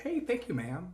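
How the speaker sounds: high, pre-puberty voice; high boyish voice. Retold or imitated. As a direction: sound like a kid on the phone. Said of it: "instead of like".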